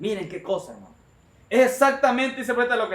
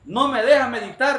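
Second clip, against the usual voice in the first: grita enojado, más alto y fuerte; hombre enojado; 5 semitones higher, 5 dB louder than usual. Retold or imitated. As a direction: increpa al perro con rabia fingida. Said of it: "se levanta el hombre enojado". (grito enojado del hombre al perro)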